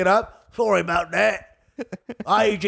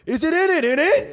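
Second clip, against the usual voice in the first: mock British accent; 9 semitones higher than usual. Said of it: "he's like".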